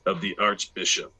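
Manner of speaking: bar their path with cold authority; stern guardsman. Acted. DM voices ebony guardsman.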